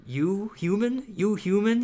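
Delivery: high, loud, odd monster voice; a creature pressing for an answer; demanding monster. A narrator's reading. Monster demanding to know if the boy is human, insistent. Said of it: "he demanded".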